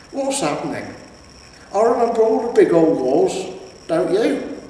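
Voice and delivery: high, lightly voiced old barbarian; a wistful old warrior; old man voice. Cohen reminiscing.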